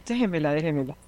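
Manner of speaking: put-on very soft, pleading hush to calm a child; soothing hush. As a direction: hush it gently so the girl settles. Calming a screaming child at pickup. (susurro suave y suplicante para calmar a la niña)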